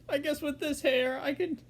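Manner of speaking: high goofy cartoon slacker; Shaggy. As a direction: keep up the squeaky-high character voice, breaking into chuckles. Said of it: "that was my attempt at sh".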